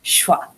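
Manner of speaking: "shva" as a single quick syllable; no vowel between sh and v in "shva"; one syllable. Shown as a demonstration. Teacher repeating the word for learners, one-syllable "shva". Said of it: "it's a one-syllable word".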